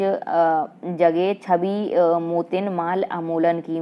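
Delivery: slow, measured verse reading; a teacher reciting Hindi verse for the class; poem recitation. Acted. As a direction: read the couplet aloud like a poem, slowly.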